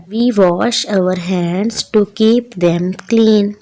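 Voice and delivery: slow, deliberate poem recitation; poem read aloud. Shown as a demonstration. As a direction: recite it slowly, word by word, for the children. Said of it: "ऊंची आवाज़ में पढ़ना". (कविता ऊंची आवाज़ में, धीरे-धीरे पढ़ते हुए)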